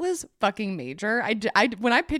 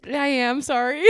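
tearing up; 5 semitones higher than usual. Real, not acted. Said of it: "are you tearing up?".

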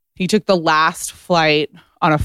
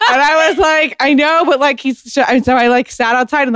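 high, louder, laughing retelling; 8 semitones higher, 4 dB louder than usual. Real, not acted. Woman telling host about the phone call, laughing through it. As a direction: carry the laugh into the words. Laughing as she resumes her story.

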